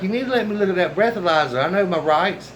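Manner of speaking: mildly indignant retold demand; retold getting mad. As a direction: insist on it, a touch angry. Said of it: "so I was getting mad".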